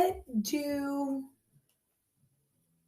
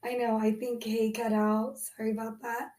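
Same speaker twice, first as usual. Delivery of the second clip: raspy voice from a cold; hoarse and croaky with a cold. Real, not acted. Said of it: "Ashley's got a little bit of a".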